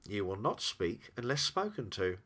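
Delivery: understated, firm command; calm, absolute authority; quiet authority. Acted. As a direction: give the order quietly, without raising the voice. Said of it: "with quiet but absolute authority".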